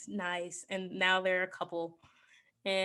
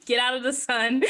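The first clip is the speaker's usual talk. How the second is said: dramatic; 3 semitones higher, 7 dB louder than usual. Retold or imitated. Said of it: "he's just being really dramatic".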